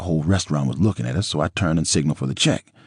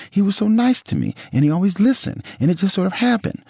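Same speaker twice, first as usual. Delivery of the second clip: Nicole's voice; 3 dB louder than usual. A narrator's reading. Nicole voiced in retold quarrel.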